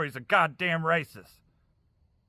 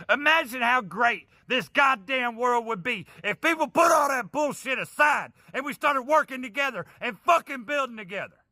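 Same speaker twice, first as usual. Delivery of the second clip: raised, pleading yell; a higher, impassioned outburst; passionate shout; 4 semitones higher than usual. Real, not acted. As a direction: shout the plea with real heat. Passionate plea during angry rant.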